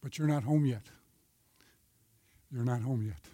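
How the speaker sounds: soft, low inner voice; hushed, as if whispered inside him; still small voice. A narrator's reading. God's quiet voice telling a missionary he isn't home. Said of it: "a still small voice came into him and said".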